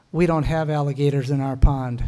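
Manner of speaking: put-on calm, matter-of-fact child's reply; no sarcasm, innocent and even. Ten-year-old daughter to a grown man, very calmly. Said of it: "very calmly, very quietly said".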